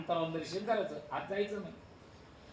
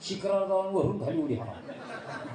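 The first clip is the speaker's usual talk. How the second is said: laughing devotee. Acted. Devotee's absurd plan, laughing.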